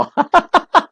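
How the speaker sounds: short high-pitched laugh; high amused chuckle; joking laugh. Real, not acted. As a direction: burst into a quick laugh at your joke. Joking about slipping up on Lao.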